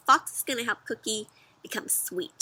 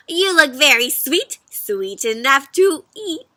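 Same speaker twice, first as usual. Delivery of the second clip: louder, slow hungry call; fox shouting; 3 semitones higher, 7 dB louder than usual. Acted. Fox shouting after the fleeing cookie. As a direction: call after him greedily. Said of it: "shouting back".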